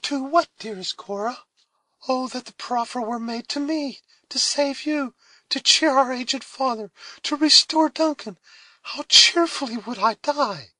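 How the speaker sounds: put-on high, loud, impassioned girl's voice; eager cry. A narrator's reading. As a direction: offer her own life eagerly. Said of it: "cried Alice".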